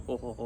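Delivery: half-hearted imitation of his old school laugh; quick mock chuckle retold. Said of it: "I did, like, some Chinese laugh".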